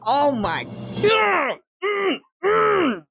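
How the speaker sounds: high, drawn-out fan squeal; overwhelmed swooning. Real, not acted. Fan reliving the "I love you", overwhelmed swooning. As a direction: stretch it out and end in high, wordless moans.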